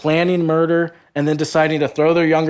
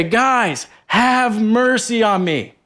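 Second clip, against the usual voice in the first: slow, higher plea for mercy; pleading Joseph; 5 semitones higher, slower than usual. Pretend. Joseph calling up to his brothers, slow pleading. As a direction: beg them slowly from the pit.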